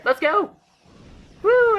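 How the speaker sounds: loud, high whoop of real delight; excited cheer. Real, not acted. Gamer cheering a very rare reward, loud and high. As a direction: cheer the rare drop like you won big.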